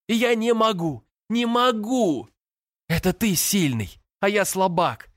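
высокий, надломленный голос сквозь рыдания; выплачи каждое слово; рыдающий подросток. A narrator's reading. Брат рыдает в душе. (брат в отчаянии рыдает, срываясь)

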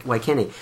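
Waikene with hard English ai and ee; Siri mispronunciation. Retold or imitated. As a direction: read Waikene like a clueless sat nav. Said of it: "I'm pretty sure it was".

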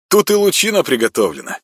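high, bright delighted announcement; pleased. Acted. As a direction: announce it with glee. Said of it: "с удовольствием оповестил". (с удовольствием)

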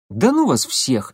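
grumbling. Acted. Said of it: "буркнул я".

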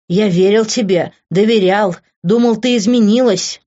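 pained, mounting accusation; hurt, angry outburst; bitter reproach. Acted. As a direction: reproach with rising intensity.

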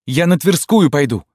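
высокий громкий крик; выкрикни в отчаянии. A narrator's reading. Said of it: "кричала Рима". (Рима кричит на мать)

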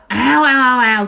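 loud "ào ào" whoosh; imitated rushing noise. Teller imitating dogs swarming up from the field, loud whoosh. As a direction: mimic a pack suddenly surging up.

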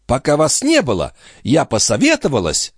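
put-on high, fast fussing old woman; mock-innocent old concierge. A narrator's reading. The concierge pretending not to know where the watch went, high and fussy. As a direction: play dumb, all fluster.

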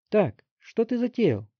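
put-on high, slow, loud boy's voice; blurted question. A narrator's reading. Teen demanding what the chief is up to. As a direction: blurt it out suspiciously. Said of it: "вырвалось у Вилли".

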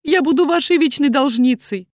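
high, loud tearful begging; desperate pleading mother; pleading through tears. A narrator's reading. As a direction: beg on your knees, voice wet with tears. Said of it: "Голос мамы дрожал от слёз".

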